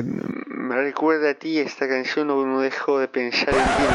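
put-on slurred drunken confession. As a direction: drunk and laughing a little. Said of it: "Me sale bien la voz de borracho".

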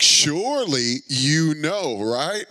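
sarcastic. Retold or imitated. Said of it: "being all sarcastic".

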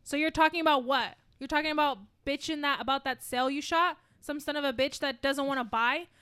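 acting Blake's speech. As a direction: lay into the salesmen.

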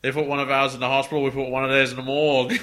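mock Chicago gangster drifting Australian; a tough-guy gangster line in an accidental Australian accent; badly faked gangster accent, Australian twang; Australian-sounding gangster. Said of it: "That was still Australian".

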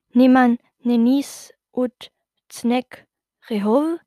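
slow, drawn-out made-up backwards words; slow goblin backwards talk; backwards speech. Acted. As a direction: sound out reversed gibberish as a goblin girl. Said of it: "fragte eine weibliche Stimme".

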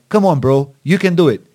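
encouraging. Retold or imitated. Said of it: "and you're like".

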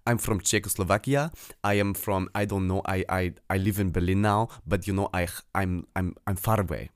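put-on light Eastern European accent in English; hesitant English, lightly Eastern European accent. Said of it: "Englisch mit so leichtem Ostakzent".

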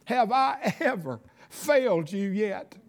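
choked up while testifying; real tearful voice. Real, not acted. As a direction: fight back tears as you speak. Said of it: "excuse me if I cry".

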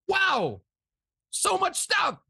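bright, high, slow announcer welcome; excited host intro. Real, not acted. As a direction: hype up the guest's entrance. Host introducing guest on show.

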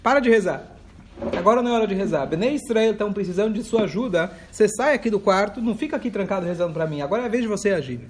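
God scolding a man who hides away to pray; stern God voice. Retold or imitated. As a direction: tell him off like an impatient God. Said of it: "O que que Deus responde pra ele?".

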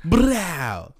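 trilled "brow" gunshot; rapper gunshot ad-lib. Retold or imitated. Joking about rap song gunshots, imitated brow ad-lib. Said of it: "the gunshots that rappers be having in their song".

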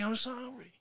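normal talking voice

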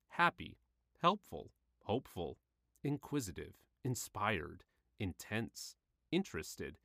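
lifted, cheerful reading of each word; bright upbeat list reading. Acted. Reading out the list of good feelings, bright and lifted. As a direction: let every word sound pleased.

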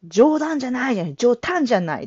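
mock teacher saying jōdan as jōtan, brisk; quick imitation, da turned to ta; teacher's quirky ta sound; imitating the teacher. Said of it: "だをたって言っちゃう人".

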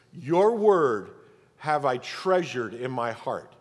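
"Your word" punched loud, then slow "have I treasured in my heart"; emphatic repetition. Shown as a demonstration. Preacher repeats verse for emphasis, weighty stress. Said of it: "say it again for emphasis".

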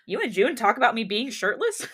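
reading through laughter; can't keep a straight face; laughing. Real, not acted. Laughs while reading line.

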